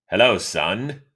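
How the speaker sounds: put-on a light, warm old broadcaster greeting; Ernie Harwell impression. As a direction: lightly play the kindly veteran announcer. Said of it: "speaking in that tone with him".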